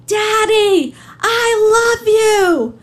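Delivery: high, loud tearful scream, drawn out slowly; child's scream. Retold or imitated. Little girl screams to daddy through the prison window, high and tearful. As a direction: cry it out to daddy through the glass. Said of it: "and she screams".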